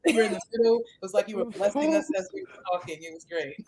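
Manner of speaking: warped, laggy call audio; slow motion glitch. Real, not acted. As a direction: sound like a stalled video call. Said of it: "What happened to the voices?".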